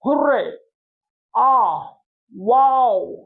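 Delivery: hurray, ah, wow cheered out; joyful cheer. Shown as a demonstration. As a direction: celebrate a match win. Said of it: "ये बता रहा है कि जीतने वाले के जो जज्बात".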